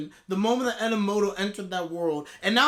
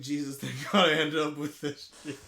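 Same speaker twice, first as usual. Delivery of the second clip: mocking Keisha; 7 semitones lower, 4 dB quieter than usual. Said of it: "Keisha's like".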